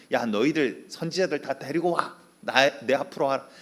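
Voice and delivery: a bold prophet daring his rivals; Elijah's challenge. Acted. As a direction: call them out to a contest.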